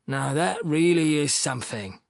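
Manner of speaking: mildly emphatic "really is something". A narrator's reading. Fyodor remarking on the cheek, emphatic. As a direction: lean a little on "really is something". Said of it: "Fyodor remarked emphatically".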